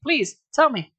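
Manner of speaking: high, urgent pleading; high eager plea. Acted. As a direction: beg him to tell her. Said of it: "she pleaded".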